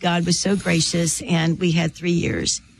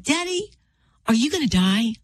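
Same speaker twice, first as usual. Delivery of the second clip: put-on tender child's question; 4 semitones higher than usual. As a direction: gently imitate a boy asking his daddy. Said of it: "with all of the tenderness".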